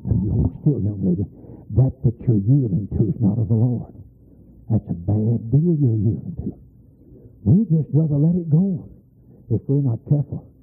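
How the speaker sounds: low, firm warning; stern low counsel. Retold or imitated. Preacher admonishing young lady, low firm. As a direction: talk her down with low authority. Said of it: "I said".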